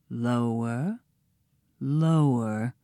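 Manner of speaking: low, softened narration; descending hush. A narrator's reading. Narrator following captives down the pit, low hush. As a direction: drop the voice as they sink.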